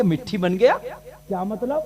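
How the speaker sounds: retold puzzled question, rising sharply at the end; puzzled disbelief. Preacher questioning the man about the turned-to-mud goods, puzzled disbelief.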